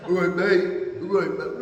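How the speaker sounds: a hint of a London bloke saying "All right, mate"; mock British "mate". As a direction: send up a British local's greeting. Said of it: "Mate" is the worst word I hate".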